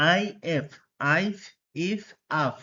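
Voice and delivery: teacher contrasting the vowels in আইফ, ইফ, আফ; combined pronunciation drill. Shown as a demonstration. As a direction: spell আইএফ, then give আইফ, ইফ, আফ as eye, ee, ah readings. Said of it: "সেগুলো একসাথে উচ্চারণ করব".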